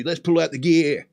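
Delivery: lightly mimicked British accent; a playful touch of British accent. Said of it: "this is what British people do".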